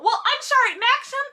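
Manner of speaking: high, mocking sarcasm; sarcastic aside to Maxim. Real, not acted. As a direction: needle him with exaggerated politeness.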